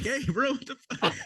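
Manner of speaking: retold scream. Soldier retells confronting sleepwalking doc, high mock scream. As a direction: imitate a startled scream without the volume. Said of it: "I start screaming at him".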